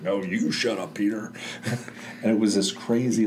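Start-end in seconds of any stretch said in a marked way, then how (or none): 0.0-1.3 hint of the teacher's sudden shout; retold shout. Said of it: "she just shouted".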